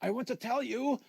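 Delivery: a disembodied voice creeping down the line; eerie phone voice. Acted. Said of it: "the voice on the phone said".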